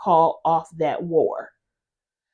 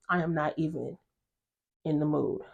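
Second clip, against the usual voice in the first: mock brush-off; 6 semitones lower, 13 dB quieter than usual. Nevada brushing off Gia.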